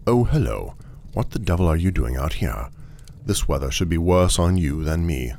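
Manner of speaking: mildly affable greeting, lifting at the start. Acted. Traveller trying affability on an automaton, mildly genial. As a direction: try a touch of friendly chattiness. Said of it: "try affability".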